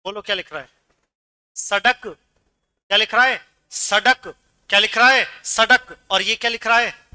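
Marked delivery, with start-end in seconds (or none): 1.5-2.0 सड़क with a hard retroflex ḍ stop; no flap in सड़क, a plain ḍ. Shown as a demonstration. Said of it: "फर्क आ रहा है सामने". 3.7-4.3 सड़क with a hard retroflex ḍ stop; no flap in सड़क, a plain ḍ. Shown as a demonstration. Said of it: "फर्क आ रहा है सामने". 5.4-6.0 सड़क with a hard retroflex ḍ stop; no flap in सड़क, a plain ḍ. Shown as a demonstration. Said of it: "फर्क आ रहा है सामने".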